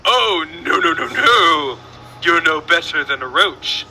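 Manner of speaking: badly faked British accent; hammed-up mock-British host. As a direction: put on a terrible British accent. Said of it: "All right, I'm in my British accent".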